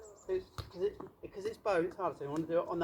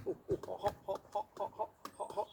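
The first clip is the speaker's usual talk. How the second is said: hot potato yelps; 3 semitones higher, 4 dB quieter than usual. Shown as a demonstration. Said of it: "you've got to start doing this".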